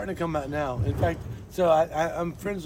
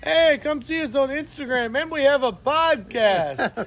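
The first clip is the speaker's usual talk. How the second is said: upbeat announcing; 7 semitones higher, 5 dB louder than usual. Retold or imitated. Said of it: "we're like".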